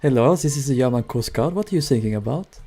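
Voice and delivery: put-on half-done German accent coast guard; light German accent. German coast guard answering the sinking ship, light German accent. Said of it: "I should have put on a German accent".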